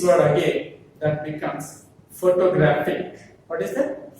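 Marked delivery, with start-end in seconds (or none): 2.1-3.2 "photographic" with the weight on "graph"; stress on "graph". Shown as a demonstration. Teacher models the new word, stress on "graph" in "photographic". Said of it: "The stress is on the graphic".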